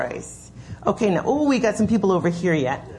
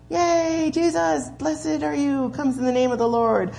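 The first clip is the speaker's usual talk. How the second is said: high, bright cheer like waving pom-poms; mock cheering crowd; 8 semitones higher than usual. Pastor playing the cheering crowd for the children, high mock cheer. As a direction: cheer him in like a crowd at a game.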